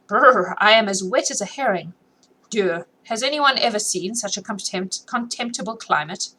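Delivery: mock consternation. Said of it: "with a merry laugh and mock consternation".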